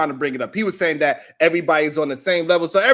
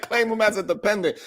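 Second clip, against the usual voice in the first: laughing quote; 2 semitones higher, 4 dB quieter than usual. Retold or imitated. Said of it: "He said".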